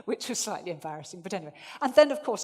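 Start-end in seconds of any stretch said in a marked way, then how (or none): 1.8-2.4 pitched up a notch from neutral; higher register. Shown as a demonstration. Speaker to audience, pitched up to show range. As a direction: lift the voice up the register. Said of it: "going up the register again from neutral".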